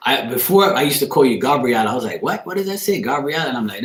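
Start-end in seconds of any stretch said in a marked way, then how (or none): 2.2-3.5 mock puzzled, higher-pitched questioning; mildly baffled retold question. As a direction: act out squinting at an unfamiliar name. Acts out own puzzled misreading.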